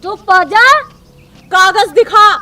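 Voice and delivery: loud, sharp order; sharp command. Acted. Policewoman demanding the rider's papers, sharp loud command. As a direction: shut them up with a loud order.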